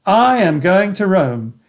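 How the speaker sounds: slow affirmation with I stressed. Shown as a demonstration. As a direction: lean on I, falling at the end. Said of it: "my affirmation in all its variations".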